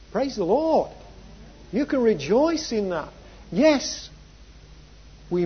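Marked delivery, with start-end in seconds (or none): 0.1-4.1 higher, lilting praise; exultant preacher's lift; rejoicing. Real, not acted.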